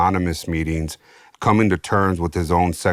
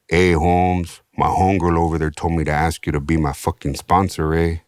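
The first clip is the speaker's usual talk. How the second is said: wannabe gangster; 4 semitones lower than usual. Retold or imitated. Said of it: "all gangster".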